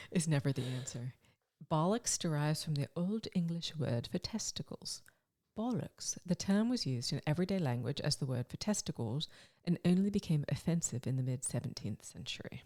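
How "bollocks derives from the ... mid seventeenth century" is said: measured, softly put-on English accent. Shown as a demonstration. Co-host explaining the origin of bollocks, English accent. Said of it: "That's a good English accent".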